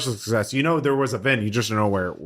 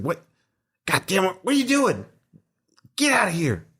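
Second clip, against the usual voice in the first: a higher-pitched, lightly voiced scruffy hermit snapping at intruders; grumpy hermit yelling; 8 semitones higher than usual. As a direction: play the filthy vent-dweller, annoyed and shooing them off. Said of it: "uh, saying".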